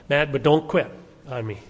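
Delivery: ordinary talk, nothing marked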